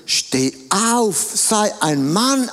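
a hint of a stern mother; lightly voiced mother telling her child to get up; mild mock order, slowed on sei ein Mann; mother rousing her child. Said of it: "was sagt die Mutter?".

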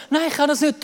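acted stubborn self-doubt; refusing. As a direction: whine back that it's impossible. Son answers the parents' encouragement.

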